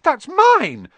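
high, loud outburst; loud protest. Acted. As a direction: cry out to get it back. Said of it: "said Harry".

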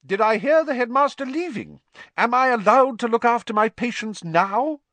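high-pitched, loud indignation; bad-tempered. A narrator's reading. Madame Pumphrey returns to her patients, cross. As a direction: demand answers in a huff. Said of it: "in a very bad mood".

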